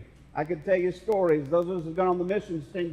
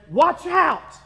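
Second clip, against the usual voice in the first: warning call; 7 semitones higher, 6 dB louder than usual. Retold or imitated. Quoting Jesus' warning.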